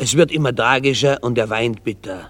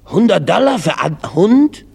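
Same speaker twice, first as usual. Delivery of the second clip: high-pitched incredulous question; 8 semitones higher, 4 dB louder than usual. Acted. Dog shopper hears the seller's price, incredulous. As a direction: balk at the price, voice leaping up. Customer shocked at dog's price.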